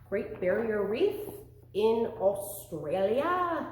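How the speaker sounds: a hint of a mock Australian accent, slowing down; bad Australian accent. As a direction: play at an Australian accent badly, half-hearted. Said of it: "That's a horrible Australian accent".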